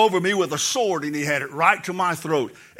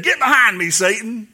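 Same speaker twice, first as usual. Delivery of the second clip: stern rebuke; 2 semitones higher, 5 dB louder than usual. Acted. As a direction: rebuke it with authority. Jesus rebukes Satan.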